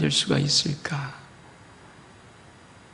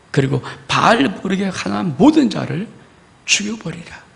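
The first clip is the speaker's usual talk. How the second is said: wrathful God. Acted. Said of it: "하나님이 뭐라고 진노하시냐면은".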